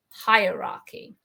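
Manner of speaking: "Hierarchy" said slowly, sound by sound; careful pronunciation. Shown as a demonstration. Teacher modelling a difficult word for learners, "Hierarchy" slow and careful. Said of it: "be careful with the pronunciation".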